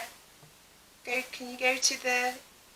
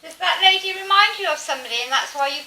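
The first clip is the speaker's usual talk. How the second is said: urgent questioning; 6 semitones higher, 7 dB louder, faster than usual. Real, not acted. Calling out to spirit.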